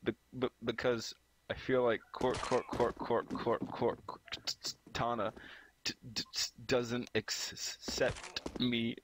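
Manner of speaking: stammering, breaking into laughter; stuck on Cor- and t-, then giggling; fake stutter. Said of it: "fake stutter".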